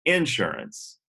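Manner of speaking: INsurance with the first syllable hit; Insurance, weight up front as in the South; Southern first-syllable stress. Retold or imitated. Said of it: "the emphasis on words".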